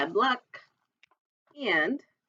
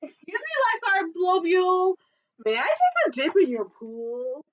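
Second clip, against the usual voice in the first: higher sweet-asking shark; Elephant Shark voice; 5 semitones higher than usual. Acted. Elephant Shark asks the lifeguard, high and polite. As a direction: ask nicely, high.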